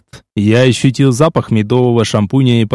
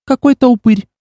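higher, sneering put-down; contemptuous; 10 semitones higher than usual. A narrator's reading. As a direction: spit out the word with disdain. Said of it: "презрительно скривилась Окси". (презрительно, с насмешкой)

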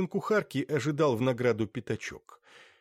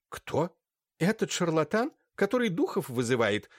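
indignant surprise; 7 semitones higher than usual. A narrator's reading. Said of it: "всплеснула руками Ирина Лукинишна".

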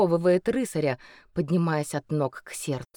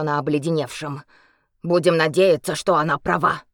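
healer voice; 4 dB louder than usual. Acted.

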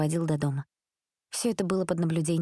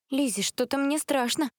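put-on scared girl; 8 semitones higher than usual. Frightened girl in chased car.

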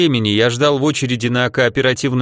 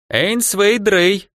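high, very slow comic cat voice; cat Behemoth voice; 8 semitones higher, much slower than usual. Acted. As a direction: drawl it like a sly talking cat. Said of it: "голосом кота-бегемота".

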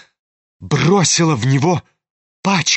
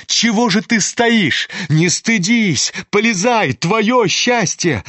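goading; 5 semitones higher, slower than usual. Acted. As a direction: egg him on into the fire. Goading Ganya toward fire. (Настасья подстрекает Ганю)

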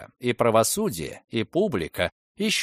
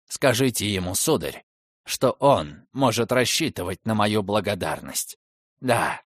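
low, sorrowful murmur; grieving father, low and heavy; quiet grief; 3 semitones lower than usual. Acted. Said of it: "скорбным голосом воскликнул каторжник".

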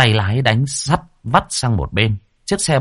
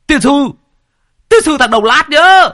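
high, loud ranting curse; furious cursing; 6 dB louder than usual. A narrator's reading. Neighbor cursing the speeding car, furious high shout. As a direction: spit out the abuse at full shout. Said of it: "nhe bộ răng Vẩu ra mà chửi".

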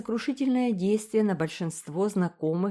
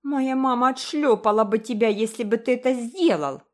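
put-on higher, louder child's cry; shouting; 6 semitones higher, 6 dB louder than usual. A narrator's reading. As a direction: shout back a threat. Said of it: "крикнула Айви". (с криком)

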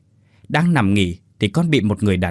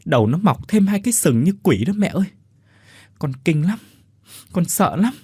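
frightened retelling; 4 semitones higher than usual. Acted. Son retells terrifying apparition.

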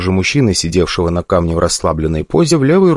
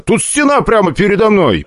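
puzzled; 13 semitones higher than usual. A narrator's reading. Hero confused at wall.

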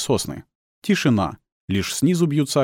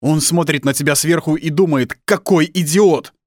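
raised, loud scolding that slows on the insult; father winding himself up; worked-up anger; 7 semitones higher, 6 dB louder than usual. Acted. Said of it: "взвинчивается всё сильнее".

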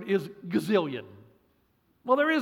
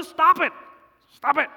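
raised, higher firm command; firm stop it; 6 semitones higher, 7 dB louder than usual. Shown as a demonstration. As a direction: tell them flatly to stop. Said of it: "I can just tell you".

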